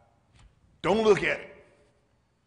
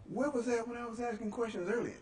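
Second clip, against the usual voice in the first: exasperated retort; 11 semitones higher, 5 dB quieter than usual. Retold or imitated. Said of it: "I was like".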